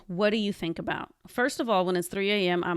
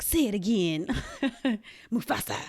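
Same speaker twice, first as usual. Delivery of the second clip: laughing quote; 3 semitones higher than usual. Retold or imitated. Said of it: "in Lion King where they're like".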